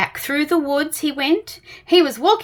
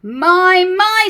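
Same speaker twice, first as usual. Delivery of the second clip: gentle; 7 semitones higher, 6 dB louder than usual. Acted. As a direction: soothe the frightened little chap. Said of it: "said Tramp gently".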